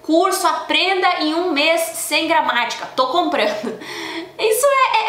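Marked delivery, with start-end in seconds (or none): 0.0-2.9 anúncio lido mais alto e devagar, em tom de locutor; voz de propaganda. Retold or imitated. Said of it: "Aparece uma propaganda". 4.4-5.1 rindo. Real, not acted.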